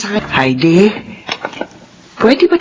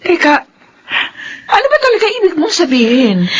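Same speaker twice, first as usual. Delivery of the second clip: higher, crying question; tearful confusion; 8 semitones higher than usual. Acted. Mother pleading with her daughter, crying. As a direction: ask it through tears.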